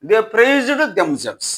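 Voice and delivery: slow, word by word, stressing praised; slow example read. Shown as a demonstration. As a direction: read it out slowly like a dictation. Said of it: "సబ్జెక్టే object అయింది". (నెమ్మదిగా చదివి చెప్పే ఉదాహరణ)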